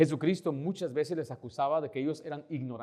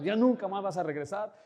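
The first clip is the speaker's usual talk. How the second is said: mildly raised, mock-angry warning; angry threat; 3 semitones higher than usual. Angry neighbour banning the evangelist from returning, mildly heated threat. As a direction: retell an irate threat with some heat. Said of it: "se enojó más".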